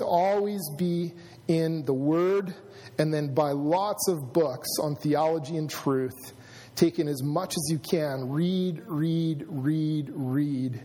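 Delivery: lightly voiced passionate teacher, slow at first; a touch of a mentor's urging, each repeated word set apart. Preacher quoting his mentor on studying the Word, lightly imitated passion. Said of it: "is very passionate".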